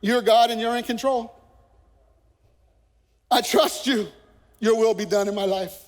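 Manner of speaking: mock a passive believer praying; imitating a complacent prayer. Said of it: "Tell me if this sounds familiar".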